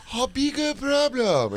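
the offensive Mickey Rooney Chinese impression; offensive mock accent. Host mocks a psychic's caricature Chinese accent. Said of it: "Mickey Rooney Chinese voice".

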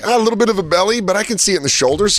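admiring onlooker voice. Retold or imitated. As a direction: size him up, impressed. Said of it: "you'd be like".

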